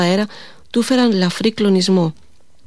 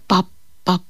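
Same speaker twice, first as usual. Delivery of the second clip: boot thuds; 3 dB quieter than usual. A narrator's reading. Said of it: "αντιχούσαν οι αρβίλες του".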